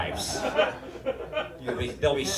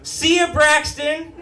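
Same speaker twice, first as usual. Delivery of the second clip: casual shouted goodbye; 9 semitones higher, slower than usual. Retold or imitated.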